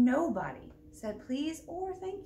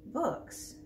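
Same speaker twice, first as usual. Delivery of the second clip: confused pirate. Acted.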